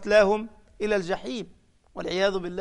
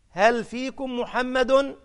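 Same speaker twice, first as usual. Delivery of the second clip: slow, drawn-out call, a little higher; 4 semitones higher, much slower than usual. Retold or imitated. Abu Sufyan calling over the pit to the Muslims, slow taunting call. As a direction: call it slowly across the battlefield. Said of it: "وينادي بأعلى صوته".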